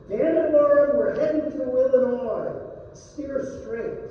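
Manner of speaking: Will yelling at Orrin to steer straight, exasperated shout. Acted. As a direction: bark an order across the boat.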